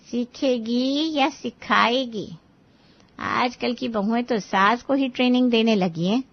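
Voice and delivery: lightly voiced, knowing neighbour; skeptical woman guest. A narrator's reading. Guest doubting the new daughter-in-law will learn, skeptical.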